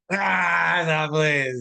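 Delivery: laughing shout. Real, not acted. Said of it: "He said infinity".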